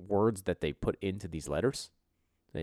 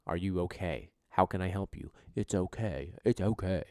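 put-on cooing at a baby. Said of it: "the people hold the baby up to their face and be like".

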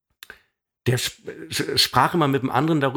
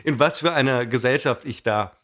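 verlegenes Lachen. Real, not acted. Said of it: "ich lache aus Verlegenheit".

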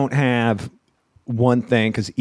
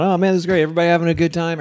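hyped crowd greeting; 5 semitones higher, faster than usual. Retold or imitated. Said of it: "I come out".

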